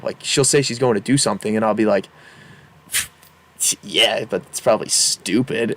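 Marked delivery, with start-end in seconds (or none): 3.8-5.7 low, grudging passive-aggressive dismissal. Retold or imitated. Boyfriend to Carly about her plans, passive-aggressive. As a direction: mimic your own passive-aggressive put-down, a bit low. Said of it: "I found myself being passive aggressive".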